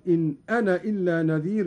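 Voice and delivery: أنا said short, alif dropped, quick. Shown as a demonstration. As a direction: clip أنا short as Hafs reads it. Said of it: "وله الحذف أيضًا".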